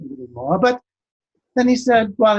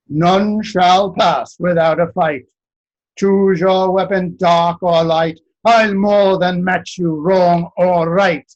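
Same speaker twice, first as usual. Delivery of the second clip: booming giant challenge; slower than usual. Acted. Giant blocks the road and challenges the Master of Fire, slow booming voice. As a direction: plant your feet and boom it out like a giant blocking the road.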